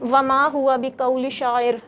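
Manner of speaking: slow Quranic recitation. Real, not acted. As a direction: recite it slowly, word by word. Student recites verse. (آہستہ تلاوت)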